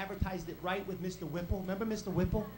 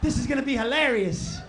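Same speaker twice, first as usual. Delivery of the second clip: put-on gleeful kids; 3 semitones higher, 7 dB louder than usual. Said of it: "the other kids are downstairs like".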